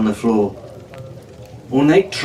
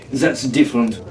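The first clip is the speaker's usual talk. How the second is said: protesting; 2 semitones lower than usual. Acted. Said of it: "Jean protested".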